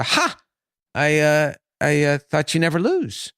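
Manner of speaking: high-pitched gloating "Ha!", then the taunt; lightly acted triumph over a beaten gambler; triumphant. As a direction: crow a little, as a retold winner. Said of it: "bartender triumphantly grabs".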